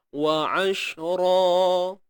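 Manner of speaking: ashra with a tight ain, slow; ain from mid throat. Shown as a demonstration. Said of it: "di tengah kerongkong sempitkan". (ain disempitkan di tengah kerongkong)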